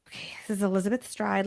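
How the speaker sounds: a whispered lead-in to the next victim; hushed intro. Real, not acted. Opening Long Liz's story for her mother in a whisper.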